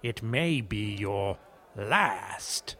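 slow, ominous warning; creepy butler. Acted. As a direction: drag it out like a sinister servant. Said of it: "I know that creepy butler is, like, your whole thing".

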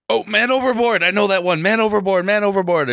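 man overboard shout. Acted. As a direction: shout it out to the whole deck. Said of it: "I start running and yelling and pointing".

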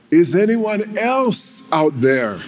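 the climber calls past God for another helper, desperate plea. Acted. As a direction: beg anyone else out there for rescue. Climber begs for other help.

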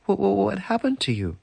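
high stammering amazement; astonished. Acted. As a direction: sputter it in wonder. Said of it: "she said".

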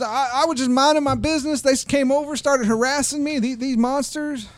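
high, loud redneck complaint; aggrieved redneck. Acted. Redneck blames the players to the sheriff, high aggrieved whine.

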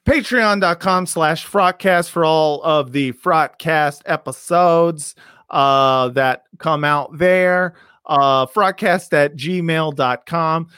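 slow, deliberate plug read. Acted. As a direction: spell out the web address slowly. Reads the podcast plug.

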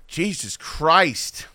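a long, tired exclamation; slow exasperated sigh. Real, not acted. Fed up with a gloating Ravens fan, slow weary disbelief. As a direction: drag out "Christ" in weary disbelief.

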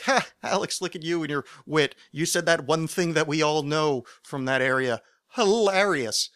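mock-delighted fan praising his wit; imagined admiring listener. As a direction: play up the amused admiration a little. Imagined audience praising his joke.

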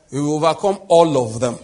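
rally the crowd, full voice; roaring rallying speech. Acted. Preacher repeats louder for congregation.

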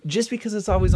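rising emphatic objection; emphatic rebuttal. Real, not acted. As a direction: cut in hard to make the point. Countering Scott's point emphatically.

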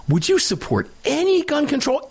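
mimicking a CNN reporter's question; mock reporter voice. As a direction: play the reporter as prissy and loaded. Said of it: "That the C N N reporter".

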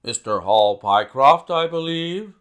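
loud, brisk opening question; brisk and sharp. A narrator's reading. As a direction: address him like a busy man of business. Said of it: "spoke sharply".

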